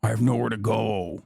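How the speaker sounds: mock wail, dropping low; mocking imitation. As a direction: whine it out as a helpless fan, hammed-up. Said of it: "And then you're like".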